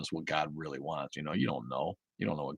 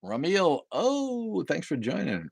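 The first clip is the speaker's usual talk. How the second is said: high, swooping welcome; delighted greeting; 11 semitones higher, much slower than usual. Real, not acted. Host thanking a viewer for joining, high delighted greeting. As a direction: sing out a surprised hello, pitched way up.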